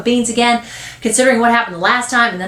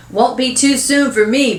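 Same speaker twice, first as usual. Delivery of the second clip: put-on higher-pitched kid jibe; snide boy; 6 semitones higher, 3 dB louder than usual. Boy wishing brother gone, snide. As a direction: toss in a mean aside.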